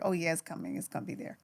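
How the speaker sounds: a hushed promise to herself; reassuring herself. Retold or imitated. Telling herself the money is coming, soft hushed whisper.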